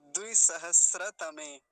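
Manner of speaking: loud, slow and emphatic; deliberate, forceful teaching demonstration; full model pronunciation. Shown as a demonstration. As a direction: punch out the whole compound. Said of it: "पूरा क्या उच्चारण होगा".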